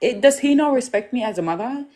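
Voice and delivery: high-pitched mock shock, hand to chest; a mother's outraged, disbelieving cry; shocked disbelief. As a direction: squeal it up high as if you can't believe it. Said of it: "I'm like".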